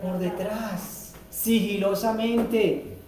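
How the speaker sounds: slow and hushed, creeping in; sneaky whisper-soft. Retold or imitated. Preacher as the wolf sneaking into the fold, slow and hushed. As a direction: tiptoe the words like a wolf at the back.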